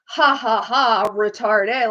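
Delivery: a slow, laughing taunt drawn out on "retarde"; a kid laughing while teasing a classmate; mock laughing. Kids walking into French class, laughing taunt. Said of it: "each and every one of us would be like".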